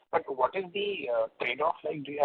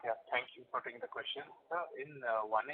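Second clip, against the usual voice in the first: barely audible; 9 dB quieter than usual. Real, not acted. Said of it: "Your voice is very low".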